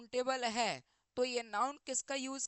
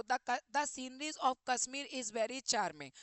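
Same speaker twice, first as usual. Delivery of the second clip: each word read out slowly and evenly; slow question reading; much slower than usual. Acted. Teacher reads the exam sentence slowly to students. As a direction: dictate the sentence to the class word by word.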